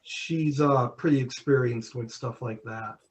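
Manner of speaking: muffled voice, bad connection; muffled, as if through cloth. Real, not acted. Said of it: "Sorry, you're muffled again".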